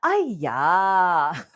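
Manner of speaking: exclaimed aiya in a mock Asian accent; scolding aiya with a mock Asian accent. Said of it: "like, Asian accent".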